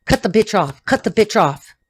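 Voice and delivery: lightly voiced brusque command; imitating Norman. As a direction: issue a curt order in his manner. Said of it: "Am I talking like you now?".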